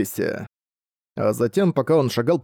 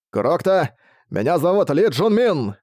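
eager, raised exclamation; exclaiming; 4 semitones higher, slower than usual. Acted. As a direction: call it out proudly, higher. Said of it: "воскликнул он".

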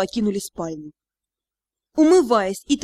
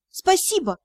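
higher-pitched sincere thanks; 6 semitones higher than usual. A narrator's reading. Heroine thanking the cat who defended her, sincere. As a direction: thank earnestly. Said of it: "искренне поблагодарила я".

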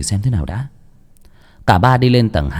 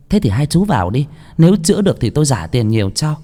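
higher woman's voice, giving in; grudging woman; 6 semitones higher than usual. Acted. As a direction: let them in reluctantly. Woman character voice. (giọng đàn bà cao, miễn cưỡng)

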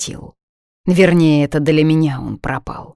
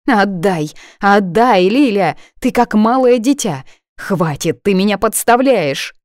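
higher, louder pleading; frantic plea; 5 semitones higher, 4 dB louder than usual. Acted. Friend begs for her phone back, frantic and loud.

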